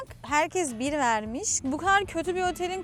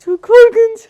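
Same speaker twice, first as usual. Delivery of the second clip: disgusted shout; 9 semitones higher, 19 dB louder, slower than usual. Real, not acted. Bedbugs found in hotel room.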